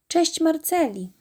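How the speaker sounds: little pig happily greeting the horse by the fence; cheerful call. A narrator's reading. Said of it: "zawołała wesoło".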